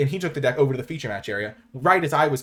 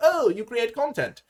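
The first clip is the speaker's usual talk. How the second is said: rough, put-on Welsh accent, pitched up; 11 semitones higher than usual. Retelling what a tournament opponent said: imitating a welsh accent. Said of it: "my imitation of his Welsh accent".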